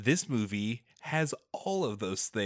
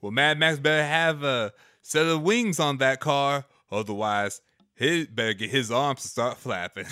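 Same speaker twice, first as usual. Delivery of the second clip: folksy voiceover; 3 dB louder than usual. Pretend. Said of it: "Dukes of Hazzard voiceover".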